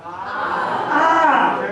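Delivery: "ah" as an open vowel with no R; Maine AR sound. Shown as a demonstration. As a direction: say ah for AR, dropping the R. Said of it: "are pronounced".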